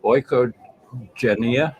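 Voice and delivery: Oikogenea? stretched out very slowly, rising; drawn-out guess. Shown as a demonstration. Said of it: "I have no idea how you pronounce it".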